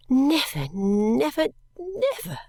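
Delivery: rising, breaking with feeling; emotional. A narrator's reading. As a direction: let the emotion build on each never. Overwhelmed narrator recalls emotion.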